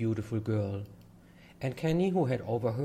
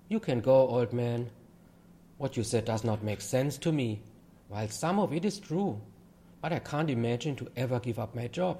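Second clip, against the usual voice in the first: skeptical; 3 semitones higher than usual. Acted. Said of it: "In a skeptical tone".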